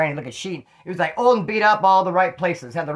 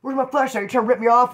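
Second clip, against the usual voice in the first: retold angry demand; 6 semitones higher than usual. Acted quarrel over the flashlight.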